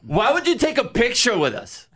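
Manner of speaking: high baffled question; imitating puzzled fan. Girl asking why he posed, high baffled. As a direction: ask it bewildered. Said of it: "And she goes".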